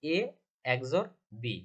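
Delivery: "এ" alone, then "এক্স or বি" said as "eks-or bi"; শিক্ষকের মতো "এ এক্স or বি" উচ্চারণ; spelling out the name. Shown as a demonstration. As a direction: model "এ এক্স or বি" for students, letter by letter. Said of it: "তার মানে আমরা উচ্চারণ করব কি?".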